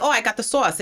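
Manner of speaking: put-on quoting oneself in a Jersey accent. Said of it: "My husband makes fun of me".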